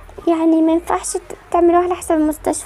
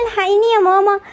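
tearful plea, voice catching; a sick child crying out for her mother; crying for mom; 3 semitones higher than usual. Acted. Sick daughter calls her mother for help, crying.

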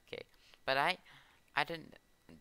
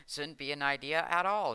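louder, higher and firm; firm louder correction; 4 semitones higher, 6 dB louder than usual. Real, not acted. Gamer loudly correcting his whispered joke, firm louder voice. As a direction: correct yourself out loud, emphatically.

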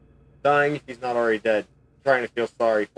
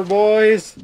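calling out; 9 semitones higher, 7 dB louder, slower than usual. Acted. Rallying the group to escape.

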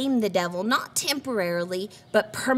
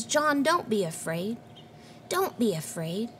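softening reassurance, fading softer; gentle comfort; 5 dB quieter than usual. Retold or imitated. Savior comforting the startled John, gentle and softening. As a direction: soothe him gently. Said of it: "he places his hand on him and he says".

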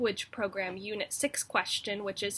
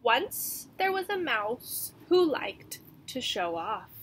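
slow, lively read-aloud narration; story narration; 3 dB louder than usual. A narrator's reading. Teacher reading a picture book to her class, gently animated. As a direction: read it to young children, drawing it out.

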